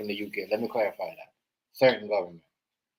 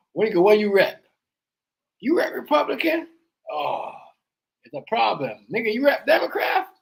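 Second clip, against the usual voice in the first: high incredulous; 10 semitones higher than usual. Real, not acted. Mock questioning people's party.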